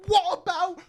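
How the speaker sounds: high, loud, slow sarcastic whine; mock whining retort. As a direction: whine it out slowly like a parody. Mocking a rapper's whataboutism.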